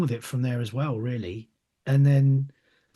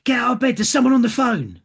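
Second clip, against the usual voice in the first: higher, louder mock call through the bedroom door; mum calling urgently; 7 semitones higher, 5 dB louder than usual. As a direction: imitate mum shouting him awake, higher and louder. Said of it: "banged on my bedroom door and said".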